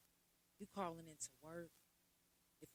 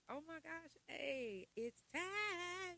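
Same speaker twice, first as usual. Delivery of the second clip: high, excited cheer, getting louder; hyped and ready, pitched way up; 10 semitones higher, 5 dB louder, much slower than usual. Acted. Acting out a good mood to viewers, excited.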